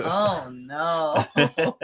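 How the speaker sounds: wooden, emotionless oh no; flat delivery. Retold or imitated. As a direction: say it completely flat, badly acted. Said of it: "it was just a flat".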